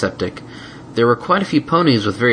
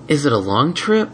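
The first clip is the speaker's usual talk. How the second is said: whiny; 6 semitones higher than usual. Acted. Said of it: "Spike whined".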